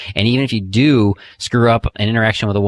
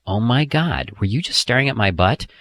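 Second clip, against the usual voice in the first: playfully outraged, a bit higher; mock-vain tease; 4 semitones higher than usual. Shown as a demonstration. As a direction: pretend she's checking you out, hammed up. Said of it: "you can look at her and go".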